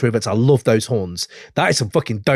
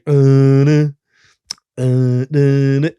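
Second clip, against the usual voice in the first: mock chanted nah, the first louder; imitating the outro; 4 dB louder, much slower than usual. Imitating the song's outro chant for his co-host. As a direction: hum out the song's outro lazily. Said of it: "And then the outro is, "Nah, nah".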